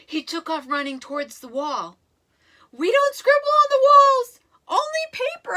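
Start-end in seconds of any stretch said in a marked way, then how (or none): 2.7-5.5 loud, high shout to stop him; yelling. Acted. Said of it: "I yelled".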